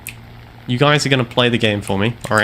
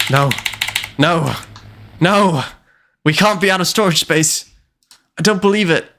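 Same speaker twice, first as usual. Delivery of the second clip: real disbelief; 5 semitones higher than usual. Real, not acted. Disbelief at storage.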